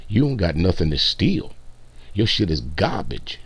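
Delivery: mock New York accent to put the streamer down. Mocking a rival streamer in a New York accent. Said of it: "little New York accent I just pulled out".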